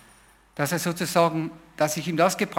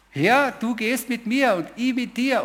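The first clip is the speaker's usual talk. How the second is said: slow, higher, joyful prayer to the Lord; 6 semitones higher, slower than usual. Retold or imitated. New believer praying to the Lord in joy, slow and higher. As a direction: lift it up as a happy vow. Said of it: "Ich habe so eine Freude gehabt".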